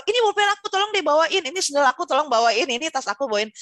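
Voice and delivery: bossy little boss. Retold or imitated. Bossy pupil ordering classmates to carry his things, demanding. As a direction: order friends around like a little commander.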